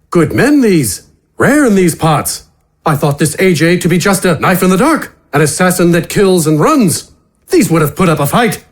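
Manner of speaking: a soldier mourning good men, gruff respect; Captain Tedev's voice. Acted.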